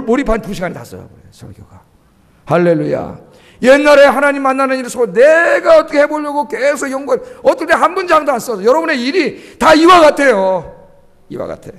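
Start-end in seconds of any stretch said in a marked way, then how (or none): 3.6-9.6 fervent pulpit shout; preaching shout. Real, not acted. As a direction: push the words out to the whole congregation. Preacher building to a climax.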